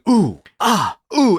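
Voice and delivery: high mock "ooh, ah, ooh"; mimed punch reactions. Shown as a demonstration. Showing how to fake a fight without stunts, mock pained oohs. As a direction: act out quick reaction noises to punches. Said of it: "cut to someone's face going".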